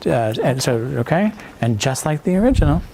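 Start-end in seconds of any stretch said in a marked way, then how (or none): 1.6-2.8 "original" emphasized, ad-read style; stress on ORIGINAL. Shown as a demonstration. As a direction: lean on "original". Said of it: "emphasize the word original".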